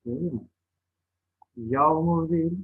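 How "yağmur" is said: "Yağmur" with an l, yalmur; l in place of ğ in "Yağmur"; misspelt form. Shown as a demonstration. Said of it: "yanlış yazılmış olan sözcüklerin".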